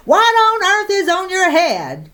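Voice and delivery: high, indignant shout. Acted. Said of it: "She always shouted everything".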